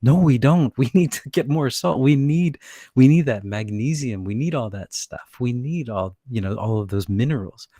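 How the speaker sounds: high, loud mock protest. Mock protest against the salt-cutting crowd, loud and high. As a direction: push back loudly against the salt advice. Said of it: "It's like".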